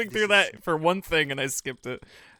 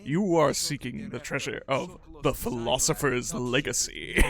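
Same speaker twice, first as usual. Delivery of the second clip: game show temple voice. Retold or imitated. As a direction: intone it like a talking stone idol. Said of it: "complete with the silly voiceovers".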